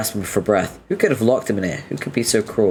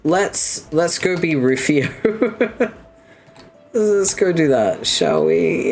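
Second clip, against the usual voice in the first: high and bright; eager to play on; excited; 8 semitones higher, slower than usual. Real, not acted.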